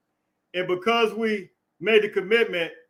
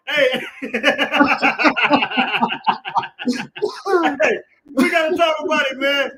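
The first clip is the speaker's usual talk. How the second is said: loud exclaim; 4 semitones higher, 4 dB louder than usual. Real, not acted. Loud laughing exclaim to chat.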